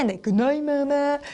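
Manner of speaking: understated second storybook voice. Shown as a demonstration. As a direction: answer gently, well below the little monkey. Second voice answers the goodnight.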